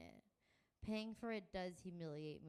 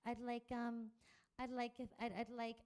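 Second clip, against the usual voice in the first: nervous, pitched up and stumbling; higher, halting with nerves; anxious higher stammer; voice too high; 5 semitones higher, 4 dB louder than usual. Acted. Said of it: "my voice sounds too high".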